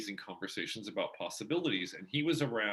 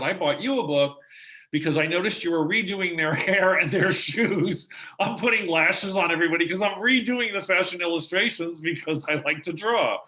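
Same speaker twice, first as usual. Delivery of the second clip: put-on higher, louder voice of an eight-year-old; child's voice; 7 semitones higher, 8 dB louder than usual. Eight-year-old Sky giving the coloring book, childlike high voice. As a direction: play a chirpy kid explaining a gift. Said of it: "Sky had one for me and said".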